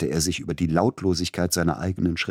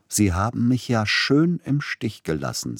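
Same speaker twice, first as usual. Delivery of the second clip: relishing, nasal reproach, higher; nasal gloating; 6 semitones higher than usual. Acted. Agent gloating at the composer, nasal and smug. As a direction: savour the complaint through the nose. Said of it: "genussvoll näselnd".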